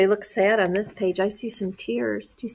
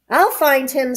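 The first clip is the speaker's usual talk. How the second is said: lightly scoffing, pitched up; mild scoff with a raised start; scoffing cat; 4 semitones higher, 6 dB louder than usual. A narrator's reading. Cat dismissing worries about the missing duck, scoffing. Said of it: "scoffed the cat".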